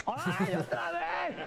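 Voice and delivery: put-on girl voice. Girl protesting again.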